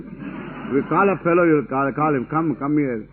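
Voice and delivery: slow, lordly call to a servant; showy rich man calling. Shown as a demonstration. Guru mimics the neo-rich man summoning someone, lordly. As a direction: drawl it like a jewel-laden upstart summoning a fellow. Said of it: "like this".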